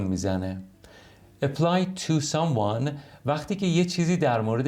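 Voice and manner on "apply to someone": careful, very slow English phrase; teacher modelling a phrase for Persian learners, very slow; slow model reading. Shown as a demonstration. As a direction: lay out each word slowly.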